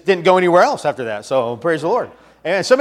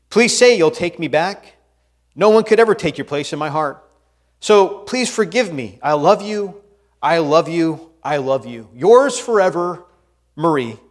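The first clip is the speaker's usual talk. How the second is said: reading a love letter. Acted. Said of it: "Here's the letter".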